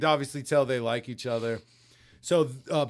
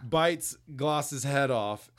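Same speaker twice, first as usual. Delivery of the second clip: usual speaking voice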